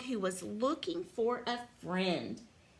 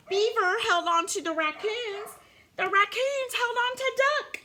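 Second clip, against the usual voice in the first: higher storybook urgency, climbing line by line; mounting suspense; 6 semitones higher, 3 dB louder than usual. A narrator's reading. Reader lists clinging animals, mounting suspense. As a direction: build each phrase higher toward the drop.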